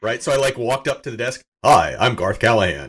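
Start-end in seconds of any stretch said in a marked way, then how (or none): 1.6-2.9 smooth public radio announcer voice, a bit louder; mock radio host introducing himself; NPR voice. Patient greeting the receptionist in a mock NPR voice. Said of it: "in my best N P R voice".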